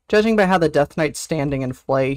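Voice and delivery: ordinary talk, nothing marked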